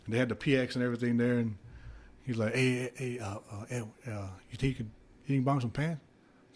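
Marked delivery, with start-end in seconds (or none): 2.5-6.0 sheepish ask. Retold or imitated. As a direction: beg timidly for a favor. Voicing roommate begging for pants.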